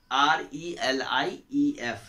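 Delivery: slow letter-by-letter spelling. Shown as a demonstration. Teacher spelling a word for the class, slow spelling out. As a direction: spell it out slowly, each letter separate.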